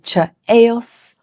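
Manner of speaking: chaos with a CH sound, CHAY-os; learner mistake. Shown as a demonstration. Teacher imitates a learner saying chaos. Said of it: "learners might say".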